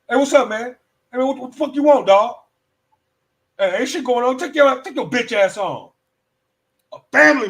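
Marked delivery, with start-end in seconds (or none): 0.1-5.9 louder, higher brush-off; a hammed-up street brush-off; mock tough greeting. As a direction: wave him off with attitude. Acted scene greeting moocher.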